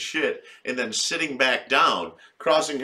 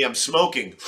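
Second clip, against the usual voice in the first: half-shouted mock; 3 semitones higher, 5 dB louder than usual. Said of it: "He's like".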